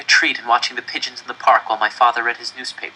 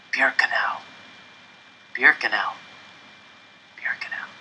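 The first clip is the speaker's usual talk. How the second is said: frightened whispering, fading away; scared whispers; 6 dB quieter than usual. A narrator's reading. People in the car passing the word along, scared whispers. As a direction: pass the name along in fear, hushed. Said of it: "the word spread ... in scared whispers".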